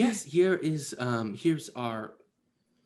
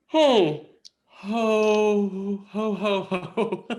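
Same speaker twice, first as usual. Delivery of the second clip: loud, high booming ho ho ho laugh; jolly ho ho ho; 8 semitones higher, 6 dB louder, much slower than usual. Acted. GM as Carol laughing to the kids, high and loud. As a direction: belt out a big Santa laugh. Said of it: "and Carol goes".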